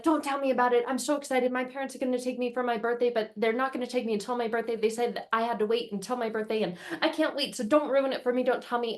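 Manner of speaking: put-on a child who can't bear spoilers; excited child.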